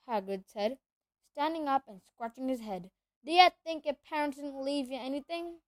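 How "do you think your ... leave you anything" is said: big booming half-giant; rough country giant voice; gruff giant voice. Acted. Hagrid voice held.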